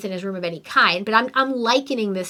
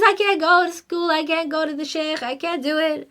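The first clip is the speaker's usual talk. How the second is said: whining son; 4 semitones higher than usual. Retold or imitated. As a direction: plead like a kid who won't go. Son whining about school.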